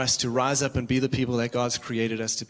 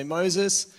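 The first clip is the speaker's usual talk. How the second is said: higher, whiny complaining crowd; grumbling Israelites; 4 semitones higher than usual. Retold or imitated. Thirsty Israelites complaining to Moses, whiny and higher. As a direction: moan at Moses like thirsty people fed up. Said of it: "they start grumbling and they start moaning".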